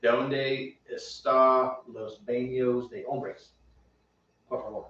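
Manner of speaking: slow, low gringo Spanish, each word laboured; deliberately bad white-American accent in Spanish; super-white American-accented Spanish. Joking to co-host by mangling tourist Spanish, super-white American accent. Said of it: "I'm intentionally sounding super white".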